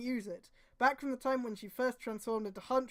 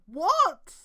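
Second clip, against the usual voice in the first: baffled what; 7 semitones higher, 11 dB louder than usual. Real, not acted. Baffled at the text.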